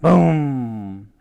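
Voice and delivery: long drawn-out boom; imitated boom. A narrator's reading. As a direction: voice the crash as a falling boom. Narrator voices the crashing battering ram.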